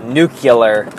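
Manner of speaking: "nuclear" slipping into "NOO-kuh-ler"; wrong pronunciation. Shown as a demonstration. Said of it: "in the back of my mind".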